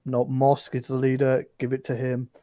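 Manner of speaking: gruff bugbear shooing them off. Acted. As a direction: hostile bugbear telling strangers off. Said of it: "he'll be like".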